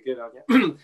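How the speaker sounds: lightly Australian, lifting on "you"; Australian phrase. Acted. Host quoting an Australian saying to the guest, Australian-style. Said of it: "as they say in Australia".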